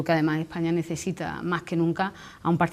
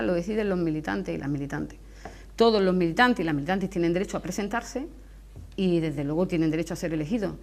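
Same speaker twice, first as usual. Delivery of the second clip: Andalusian accent with dropped final s; andalusian spanish. Real, not acted. Jaén politician, dropped final s.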